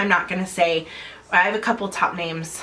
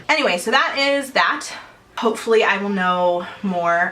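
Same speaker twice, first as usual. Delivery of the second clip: out of breath. Real, not acted. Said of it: "I'm sorry if I'm out of breath".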